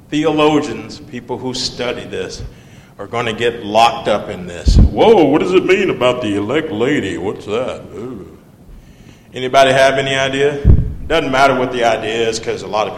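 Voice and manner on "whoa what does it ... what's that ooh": lightly acted puzzled surprise; mock bafflement. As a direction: play someone stumped by a phrase. Mimicking puzzled theologians stuck on phrase.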